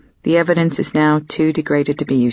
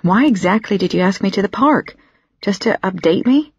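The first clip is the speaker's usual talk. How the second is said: curt, fast and a touch higher; rude; 3 semitones higher than usual. Acted. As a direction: snap the question out faster than intended. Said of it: "It comes out rudely".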